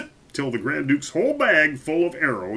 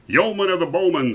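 louder, higher royal address; commanding king; 7 semitones higher, 5 dB louder than usual. A narrator's reading. King addressing his archer, commanding. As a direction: call on the champion as king. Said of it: "said the king".

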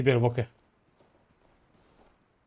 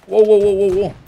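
excited exclamation; 6 semitones higher, 7 dB louder than usual. Real, not acted. Reacting in fight.

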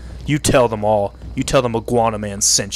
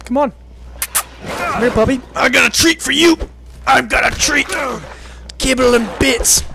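high, sing-song doggy-treat voice; coaxing a dog; 10 semitones higher than usual. Pretend. Gamer mockingly calls wolves like puppies in a high coaxing voice. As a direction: lure them in like a pet owner with treats.

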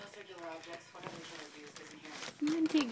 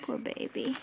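whisper; 6 dB quieter than usual. Real, not acted. Sympathy to cat.

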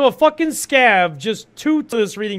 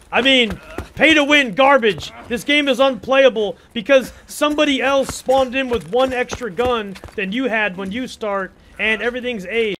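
higher, louder sarcastic whiny gamer complaint; mock rant; 4 semitones higher, 4 dB louder than usual. Streamer mocks pay-to-win complainers in a sarcastic whine. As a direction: parody a player crying pay-to-win.

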